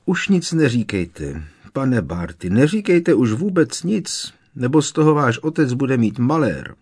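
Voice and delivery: high, loud, panicked begging; frantic pleading. Acted. House-elf begging her master to keep silent, high frantic plea. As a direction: beg him to stop talking.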